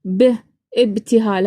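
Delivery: "ب، ابتهال" with a voiced b, not p; Arabic B sound. Shown as a demonstration. Showing there is no p, "ب، ابتهال" with a clear b. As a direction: say "ب" alone, then "ابتهال" with that same b. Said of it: "هكذا يعني ما عندناش حرف الب".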